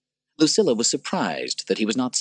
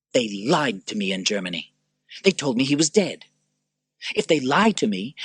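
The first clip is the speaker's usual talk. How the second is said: wounded Commodus; 6 semitones higher than usual. Acted. Commodus at the window complaining, rising hurt.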